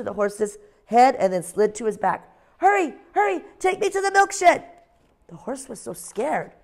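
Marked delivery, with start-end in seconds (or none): 2.6-4.6 much higher, louder owl voice crying out; a tiny owl pretending there's an emergency; little owl's alarm. Ozzie urging the horse.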